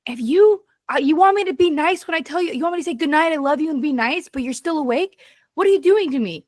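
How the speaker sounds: half-acted rant at kids who won't sleep; exasperated scolding. Mother retelling scolding her kids at bedtime, exasperated and rushed. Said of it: "I lost it on them".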